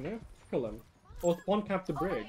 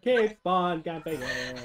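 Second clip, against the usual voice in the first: laughing; slower than usual. Real, not acted. Laughing while cheering on.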